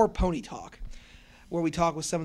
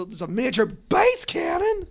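high excited whisper; 13 semitones higher, 8 dB louder than usual. Retold or imitated. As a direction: breathe it out, high-pitched. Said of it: "she goes".

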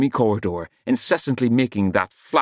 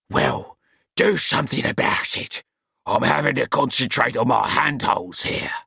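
put-on a touch of a cranky old master; irritable old Smeems. A narrator's reading. Smeems clinging to the candle, snapping down at Nut. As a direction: grumble it while clinging on.

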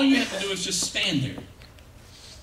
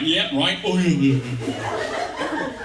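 ventriloquist dummy voice; 3 semitones lower, much slower than usual. Acted. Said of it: "he might sound a little something like this".

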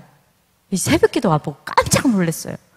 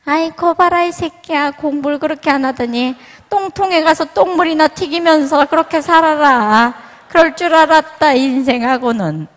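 higher, louder, contemptuous berating; scolding mother; 6 semitones higher, 4 dB louder than usual. Retold or imitated. Harsh mother scolding her son who failed, loud and scornful. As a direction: sneer and tear into the failed son. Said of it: "이럴 엄마거든요".

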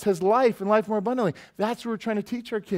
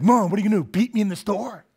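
put-on defiant kid; 3 semitones higher, 4 dB louder, faster than usual. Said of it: "they're like".

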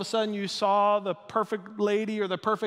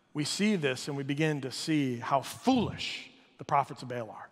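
normal talking voice

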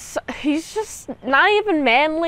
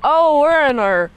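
mocking French guard; 3 dB louder than usual. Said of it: "You got one French dude be like".

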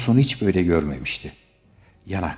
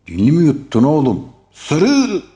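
high, loud, ending in a chant yell; teasing shout; 10 semitones higher, 9 dB louder than usual. A narrator's reading. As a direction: taunt him, then bellow it. Hamdi Bey chanting at İlyas. (yüksek sesle alaycı bağırış)

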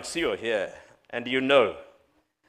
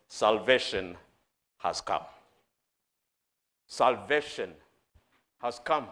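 low, hushed proclamation with long pauses; solemn preaching; 4 semitones lower than usual. Acted. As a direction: let each phrase settle, dropping low.

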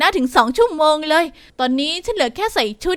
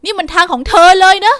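excited cry; 2 semitones higher, 6 dB louder than usual. Acted. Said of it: "ร้องออกมาด้วยความตื่นเต้น".

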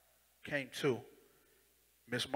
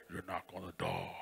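calm voice; 7 semitones lower, 3 dB quieter than usual. Retold or imitated. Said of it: "the calmest voice I ever heard".

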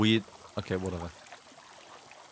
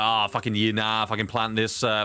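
put-on Aussie accent; mock Australian. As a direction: play a sweary Aussie farmer. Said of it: "so I can learn to be Australian".

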